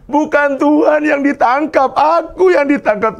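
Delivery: high, loud comic exclamation; excited punchline. Real, not acted. Preacher telling the church he'd be arrested, high and excited. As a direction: land the joke high and bright. Pastor jokes he'll be arrested.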